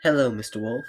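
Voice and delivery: put-on high, loud English girl; English accent. Red greets the wolf, high English accent. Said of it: "you're gonna be English".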